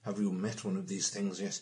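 put-on slow, hushed old professor voice; lightly voiced delighted old professor, slow; dotty professor. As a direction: savour it like a delighted eccentric. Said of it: "Professor leans out of the car and goes".

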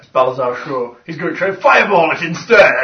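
delighted incredulous outburst; laughing disbelief. Real, not acted. Game master laughing at the fireball plan.

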